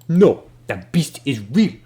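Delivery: insistent Ben Dubas. Acted. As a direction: insist the beast is real. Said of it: "And Ben Dubas says".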